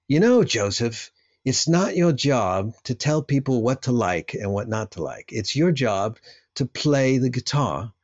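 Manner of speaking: a light, badly faked hint of Glyn Johns's English accent. Quoting producer Glyn Johns's advice in a bad Glyn Johns English accent. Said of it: "really bad Glyn Johns accent".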